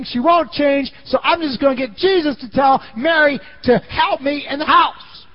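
exasperated sister, high and loud, nearly shouting; frustrated high shout. Retold or imitated. Martha fuming to herself about her sister, high frustrated shout. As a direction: vent like a fed-up older sister.

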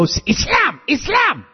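high shouted cry of Islam; hammed-up zealot yelling Islam; mock attacker's shout. Early followers forcing converts, shouted. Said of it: "and go".

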